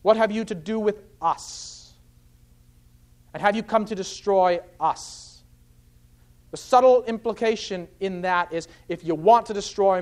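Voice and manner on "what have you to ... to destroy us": "us" set apart after a short pause; stress on the pronoun. Shown as a demonstration. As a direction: hold back, then land deliberately on "us". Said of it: "Notice again those plural pronouns".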